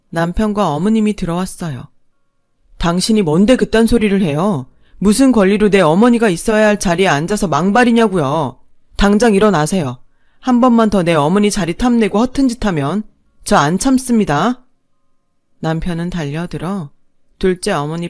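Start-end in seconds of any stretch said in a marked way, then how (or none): 2.8-14.6 louder, firm and threatening; cold fury. Acted. Son threatening his father's mistress, loud and firm. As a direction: warn her with contained rage.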